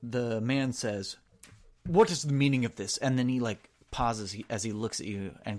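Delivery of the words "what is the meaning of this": loud, fast demand; indignant baron. Acted. The Baron confronting the soldier who barged in, loud. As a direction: bark out the question.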